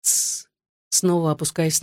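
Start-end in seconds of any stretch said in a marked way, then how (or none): 0.0-0.5 soft, voiceless hush; narrator's whispered "shh"; whispered shushing. A narrator's reading. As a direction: shush gently under your breath. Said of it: "она шептала".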